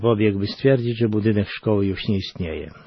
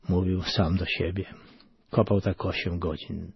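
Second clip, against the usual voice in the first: plain reading voice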